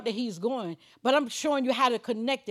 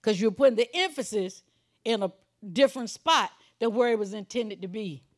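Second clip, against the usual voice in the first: ordinary talk, nothing marked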